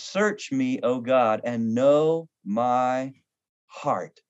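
slow reverent prayer; hushed scripture recitation. Acted. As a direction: read the psalm as a prayer. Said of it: "This is".

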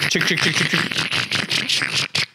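clicking like a coaster chain; chain lift sound. Acted. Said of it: "chain lift".

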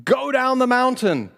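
God hurrying Moses down the mountain; urgent voice of God. Acted. God warning Moses, high and urgent. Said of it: "Then the Lord told Moses".

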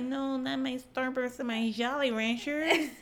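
mock sad. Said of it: "I was so sad".

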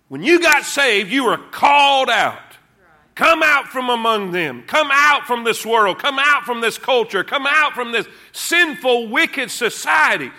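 rising preacher's cadence, driving each line; preaching at full force. Acted. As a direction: hammer the repeated phrase home.

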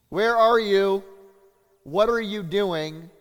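high, loud, desperate plea, slowing on the questions; panicked cry. Retold or imitated. Disciples crying out to Jesus in the storm, loud panicked plea. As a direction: cry out to a sleeping master as the boat sinks. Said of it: "they're like".

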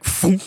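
sudden vocal "phoom" whoosh; whooshing noise. Retold or imitated. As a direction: imitate something shooting past. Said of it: "suddenly it's like".

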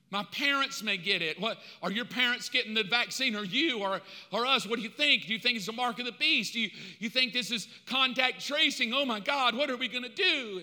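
imitated anxious chatter, questions tumbling out; hammed-up rising panic; mock fretting. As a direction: play a worrier piling up questions. Imitates anxious people fretting over vaccine.

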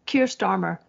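mock dramatic whisper of Keir Starmer. Mocking Keir Starmer's line in a whisper. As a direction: breathe it like a pained confession. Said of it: "I mean, pain".

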